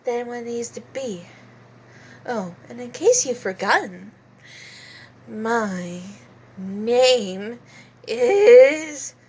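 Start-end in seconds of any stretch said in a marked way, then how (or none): 2.2-9.1 affected British lady introducing herself; Celestia Ludenberg. Acted. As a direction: put on an overdone British politeness. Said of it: "Celestia Ludenberg sounds more British".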